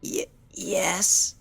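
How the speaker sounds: tiny scared whispered yes; frightened whisper. Acted. Fluttershy to the doctor, a frightened whisper. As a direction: barely get the word out, terrified. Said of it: "She gulped".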